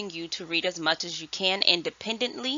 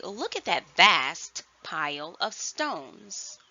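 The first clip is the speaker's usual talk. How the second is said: example sentence; slower than usual. Shown as a demonstration. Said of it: "for example, I would say".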